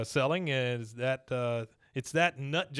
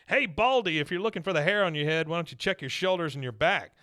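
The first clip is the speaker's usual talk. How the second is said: mock yell; 4 semitones higher than usual. Neighbor taunting Bill across the lawn, mock yell. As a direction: retell Peggy's taunt with a hammed-up shout. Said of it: "she screams over to him".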